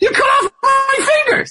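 stunned, shocked, very high outburst. Retelling a TV scene after a chef cuts off fingers: retelling a shocked outburst. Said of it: "I look at him in shock".

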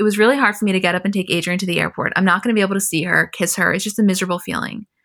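ordinary talk, nothing marked

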